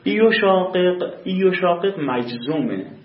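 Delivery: این یشاقق drawn out slowly and loudly, each sound clear; slow demonstration. Shown as a demonstration. Teacher repeating the example slowly for students. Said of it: "گوش کن اینجا".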